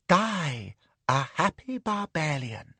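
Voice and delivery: slow, purring lady's voice. Acted. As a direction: purr it slowly and contentedly. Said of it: "purrs Madam".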